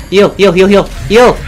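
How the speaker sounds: high, urgent repeated command; rapid-fire panicked repeats; frantic shouting. Acted. Player desperate to heal in lava, frantic. Acted frantic healing in game.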